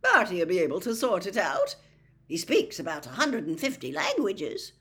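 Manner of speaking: breezy, jovial complaint at full volume; big cheerful voice; cheerful booming. A narrator's reading. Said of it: "Bagman turned most cheerfully back".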